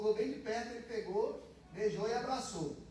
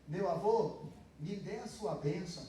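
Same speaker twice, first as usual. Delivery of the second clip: full slow form; 2 semitones lower than usual. Shown as a demonstration. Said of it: "é como se eu estivesse dizendo".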